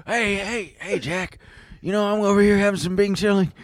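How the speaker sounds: half-hearted elderly president impression; Biden. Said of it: "can you do Biden talking about ice cream".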